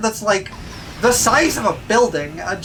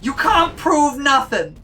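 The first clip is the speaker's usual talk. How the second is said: mock defiant shout; 4 semitones higher, slower than usual. Joking denial of crimes, shouted.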